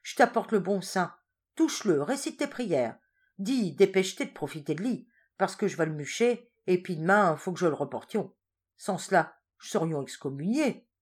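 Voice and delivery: wife pressing her husband to pray to the saint; urgent old wife. Acted. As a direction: hurry him along.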